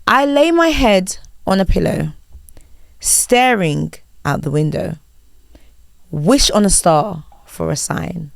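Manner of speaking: slow, spoken lyrics with pauses; reading out lyrics. Shown as a demonstration. Host quizzing guest on a song, read not sung. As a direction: read the song as prose, line by line. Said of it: "I will read out the lyrics".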